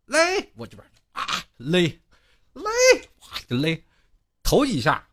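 quick, high calls of the word; calling out pull. Retold or imitated. Senior apprentice calling across the truck to pull, quick and high.

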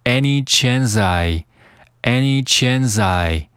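"chance I" joined as chan-sai; "any chance I" run together without a break; linked "chance I". Shown as a demonstration. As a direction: carry the s of "chance" onto "I". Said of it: "和I进行连读".

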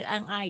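"and I" joined as "an-nai"; linked and-I. Shown as a demonstration. Teacher shows "and I" connecting, linked pronunciation. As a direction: drop the d and run "and I" together. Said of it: "可以连起来".

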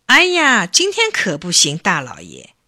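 feigned panic. Acted. Bacang stalls the threatening chief, feigning panic. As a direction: put on alarm from the first exclamation. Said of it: "故作惊慌地说".

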